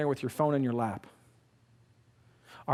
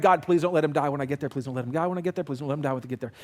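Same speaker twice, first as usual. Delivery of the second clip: retold anxious prayer; 3 semitones lower, faster than usual. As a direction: plead under your breath, fading with each repeat. Panicked silent prayer retold as repeated plea.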